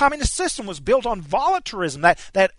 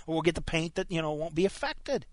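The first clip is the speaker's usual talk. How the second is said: indulgent parent; 5 semitones lower than usual. Retold or imitated. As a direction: coo it away like a parent shrugging off crayon marks. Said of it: "a tolerant parent would say".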